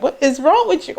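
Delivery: high-pitched retold alarm; alarmed mom. Mom reacting to her crying daughter, alarmed. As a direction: imitate a startled mother.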